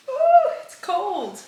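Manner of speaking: high, slow gasp at the cold; cold shock. Real, not acted. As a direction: react to something icy on skin. Cold tanner on skin.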